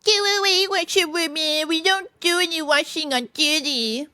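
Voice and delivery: high, proud, stiff put-on voice; haughty sentry. A narrator's reading. Sentry turning away the washerwoman, haughty. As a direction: dismiss her with stiff disdain. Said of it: "very proud and stiff and hot".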